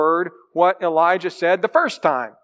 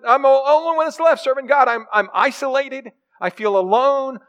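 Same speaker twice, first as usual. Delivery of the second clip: higher, pleading, self-pitying prophet; a hint of a worn-out prophet feeling sorry for himself; complaining Elijah; 4 semitones higher than usual. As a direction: whine out the list of grievances. Preacher voices complaining Elijah.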